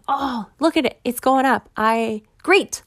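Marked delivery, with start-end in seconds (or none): 0.1-1.7 hopeful excitement. Retold or imitated. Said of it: "I'm thinking".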